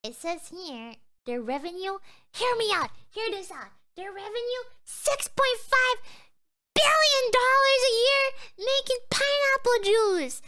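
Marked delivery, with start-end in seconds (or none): 4.8-10.4 outraged disbelief. Real, not acted. Reading Dole's revenue to chat.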